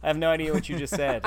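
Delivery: laughing along, clueless; polite fake chuckle. Fake polite small talk reply.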